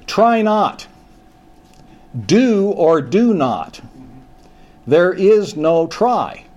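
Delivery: a hint of a small warbly Jedi master, slow; lightly voiced Yoda, slowed right down. Preacher imitating Yoda quoting to Luke, slow and a touch warbly. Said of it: "with this warbly voice".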